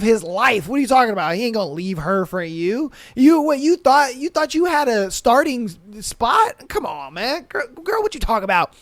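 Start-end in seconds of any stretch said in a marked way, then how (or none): 3.2-8.4 high mocking you thought; mocking high scoff; mocking disbelief. Real, not acted. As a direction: scoff at her, pitch jumping high. Mocking the other girl.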